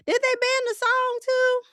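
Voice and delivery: high, loud sudden question; high, loud, startled question; shocked. Real, not acted. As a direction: jump up in pitch, shocked. Sudden realization mid-sentence.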